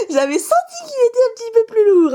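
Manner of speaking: high-pitched giggly squeal; thrilled, voice shooting up; giddy excitement. Real, not acted. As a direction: burst out high, just after a laugh. Excited at a heavier pack's pull.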